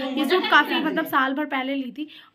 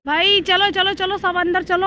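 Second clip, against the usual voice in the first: raised, higher-pitched hurry-along call; 5 semitones higher, 4 dB louder than usual. Real, not acted. Vlogger herding family into the car, calling out. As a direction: round everyone up, pitched up.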